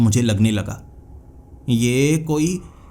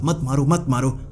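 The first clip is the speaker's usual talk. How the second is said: ordinary delivery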